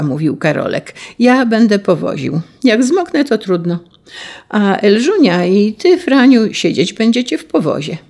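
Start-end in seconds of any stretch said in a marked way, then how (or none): 1.2-8.0 put-on eager bossy boy. Boy bossing siblings.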